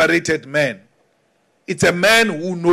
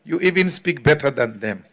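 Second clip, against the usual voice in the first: patronizing praise; 3 semitones lower, 4 dB quieter than usual. Retold or imitated. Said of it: "patronize you".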